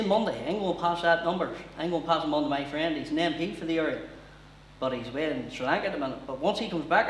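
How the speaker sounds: lightly hammed-up Ballymena accent; the Taken threat in everyday Ballymena speech; Liam Neeson in Ballymena accent. Kidnap-film hero warning the caller, in a local Ballymena accent. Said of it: "if he hadn't changed his voice".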